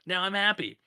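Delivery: high, bright-sounding parody of a cheerful patient in an ad, pitched well up; mock drug ad woman. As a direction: gush like a happy woman in a pill commercial, lightly mocking. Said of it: "she's like".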